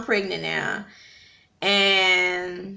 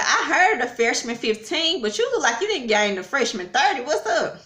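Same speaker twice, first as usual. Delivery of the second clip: higher-pitched, lively teasing of a daughter; teasing mom; 4 semitones higher than usual. Retold or imitated. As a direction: lightly mimic a mom poking fun. Mom teasing daughter about weight, retold.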